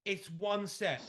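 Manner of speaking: mock exasperation at the client; incredulous retort. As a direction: scoff that it is only one set. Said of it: "I'm like".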